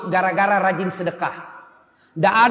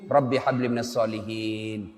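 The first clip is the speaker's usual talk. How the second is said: whispered prayer; 10 semitones lower, 6 dB quieter than usual. Shown as a demonstration. A parent bends close to a child, murmuring the prayer softly. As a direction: softly murmur "Rabbi habli minas solihin" near a child's ear.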